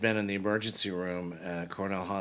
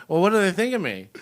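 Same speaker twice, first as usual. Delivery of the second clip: much higher and louder, mock worried; anxious high question; 11 semitones higher, 10 dB louder than usual. Asking the agent what they think of him, mock worried and high.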